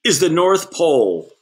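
high, proud announcement of arrival; conductor announcing. A narrator's reading. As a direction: point it out with pride. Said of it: "said the conductor".

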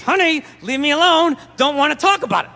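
words forced through clenched teeth; through gritted teeth. Retold or imitated. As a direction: grit your teeth and hold it in. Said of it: "Talking through my teeth".

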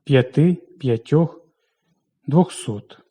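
п'яти, п'ятьох, двохсот stressed on the final syllable; stress on endings. Shown as a demonstration. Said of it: "припадає на закінчення". (наголос на закінчення: п'яти, п'ятьох, двохсот)

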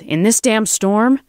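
high, loud, slow incredulous yell; yelled protest. A narrator's reading. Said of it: "Joel yelled".

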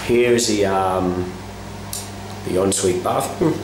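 hoarse voice from a virus; rough, sick-sounding voice; raspy whisper. Real, not acted. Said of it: "Excuse my voice, I'm still getting over a virus".

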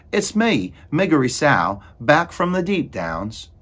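high, loud character shout; shouted announcement. A narrator's reading. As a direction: call it out loudly and high. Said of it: "she shouted".

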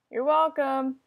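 laughing. Real, not acted.

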